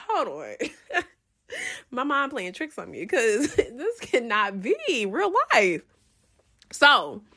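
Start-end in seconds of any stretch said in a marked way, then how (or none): 0.1-5.8 laughing through disbelief, softer; half laugh half cry of shock; disbelieving laugh. Retold or imitated. Spotting him with another girl, a shaky disbelieving laugh. Can't believe her eyes.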